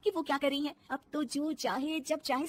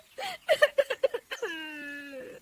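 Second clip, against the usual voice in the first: sobbing; 4 semitones higher than usual. Acted. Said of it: "वो रोने लगती है".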